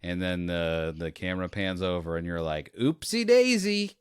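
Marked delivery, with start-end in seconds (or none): 2.8-4.0 high, loud, slow singsong; mock-innocent oops. Viewer reacts to the camera reveal, mock-innocent oops. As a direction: draw it out like a comic blunder. Flippant reaction to killing stepdad.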